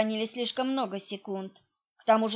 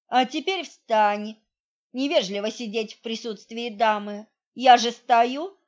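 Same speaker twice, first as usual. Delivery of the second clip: stern commanding; 6 dB louder than usual. Acted. Heroine orders beaten thug up.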